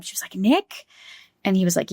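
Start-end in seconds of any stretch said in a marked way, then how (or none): 0.3-0.8 retold anguished call. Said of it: "she was, like, all broken up".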